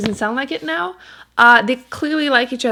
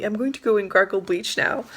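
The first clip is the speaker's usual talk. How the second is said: laughing. Acted. Quoting heroine's line, laughing.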